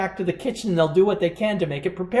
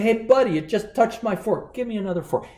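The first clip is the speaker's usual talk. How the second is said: annoyed American customer; 7 semitones higher than usual. Retold or imitated. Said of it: "someone might say".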